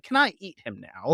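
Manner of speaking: playful put-on pleading question; imitated request for approval. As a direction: ask it high, mimicking someone seeking permission. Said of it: "He just looks over to Drew. He's like".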